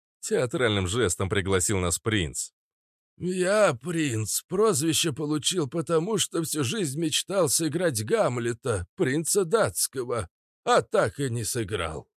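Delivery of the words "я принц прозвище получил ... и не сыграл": higher-pitched, slow failed actor; hoarse theatrical Prince. Acted. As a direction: draw it out with stagey ruefulness. (театрально, нараспев)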